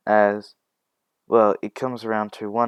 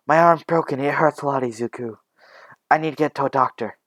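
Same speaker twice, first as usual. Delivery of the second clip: raised, strained plea for a doctor; higher, louder hurt voice; pained urgency; 4 semitones higher, 4 dB louder, faster than usual. Acted. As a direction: plead urgently through the pain. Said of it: "she was screaming in pain".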